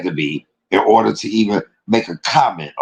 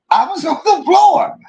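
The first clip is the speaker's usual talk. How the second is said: even higher, squealing with laughter; laughing higher. Real, not acted. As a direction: push it up into a squeal. Repeats while laughing.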